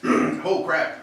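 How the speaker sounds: slow, pained from spice; mouth burning from spicy food. Real, not acted. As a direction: push words through the heat. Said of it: "That hit me good".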